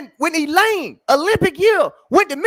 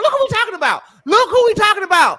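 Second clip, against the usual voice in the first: outraged; 3 semitones higher than usual. Real, not acted. Naming the sprinters in outrage.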